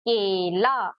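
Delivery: "केला" with a held ay in the first syllable; weight on ए. Shown as a demonstration. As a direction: lean on the ay of "केला". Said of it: "थोड़ा जोर देके ही पढ़ते हैं".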